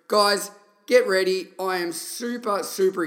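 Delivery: hyped call. Real, not acted. Host hypes up the guest intro.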